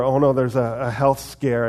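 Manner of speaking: loud, mildly hammed-up worry; mock panic. Believers struggling with little bits, mock panic. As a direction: imitate a worrier piling on troubles, loudly. Mimics people fretting over troubles.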